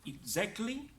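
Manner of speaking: "Exactly" begun with a voiced "ig-z"; IG sound. Shown as a demonstration. Teacher showing the I G sound, voiced IG. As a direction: start "Exactly" on "igz", pitch rising. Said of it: "Now the I G sound".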